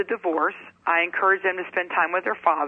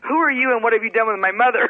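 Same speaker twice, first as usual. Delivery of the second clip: higher, fast mock disbelief; shocked kid; 3 semitones higher, 4 dB louder, faster than usual. Kids greeted lovingly by mother, mock shock. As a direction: play the stunned child questioning mom. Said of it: "They must have been shocked".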